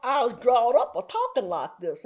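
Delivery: twanging Southern accent. Shown as a demonstration. Explaining her upbringing to the host, in a Southern accent. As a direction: lay on a playful Southern twang. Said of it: "I can do a Southern accent real well".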